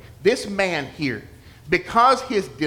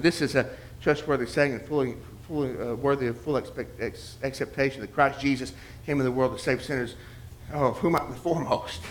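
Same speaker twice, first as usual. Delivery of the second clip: murmured recitation; 3 semitones lower, 6 dB quieter than usual. Retold or imitated. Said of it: "at the grocery store".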